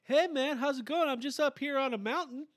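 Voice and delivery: hammed-up cheerful Canadian on the phone; Canadian accent imitation. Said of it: "Ryan will call me on the phone".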